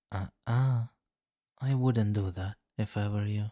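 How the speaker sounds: a vampire king halting a fleeing captive; sharp warning. Acted. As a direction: stop her in her tracks. Captive tries to flee.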